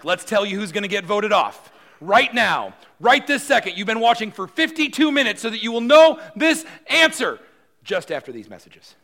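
high, loud, hyped reality-show announcer; milk the suspense before the break; game show host teasing the result. Retold or imitated. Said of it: "This is the time when we would say".

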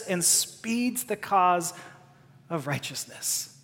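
a soft, low hushed reading of hope; tender scripture reading. Acted. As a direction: read the promise like a hushed comfort. Reads the promise softly.

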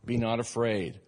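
lightly voiced loving father taking you in; tender welcoming God. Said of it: "God with his arms wide open saying".

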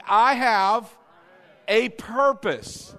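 preacher leading a loud response; loud congregational call. Shown as a demonstration. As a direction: lead the church saying it with force. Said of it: "Say it with me".

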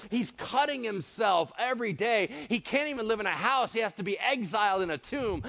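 ordinary delivery

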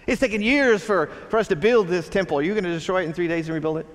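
religious leaders retorting to Jesus, lightly mocking disbelief; mock incredulous. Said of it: "They're like".

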